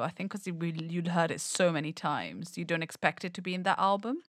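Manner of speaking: echoey, roomy sound. Real, not acted. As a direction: voice with an echo. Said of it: "your voice has gone odd".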